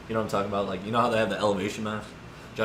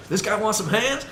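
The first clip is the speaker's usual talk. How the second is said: high, louder, laughing dare; amused fighting challenge; 11 semitones higher, 5 dB louder than usual. Retold or imitated. Friend Joe eager to fight.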